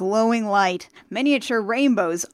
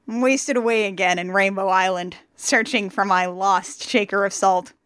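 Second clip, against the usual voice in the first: song lyrics recited as spoken word; spoken-word impression of a singer. Pretend. Host signs off the podcast with parody lyrics, spoken word. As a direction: recite the lyrics without singing, in even phrases. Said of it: "Spoken word singer".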